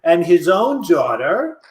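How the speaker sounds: pompous courtroom lawyer. Acted. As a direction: argue like a TV defence attorney.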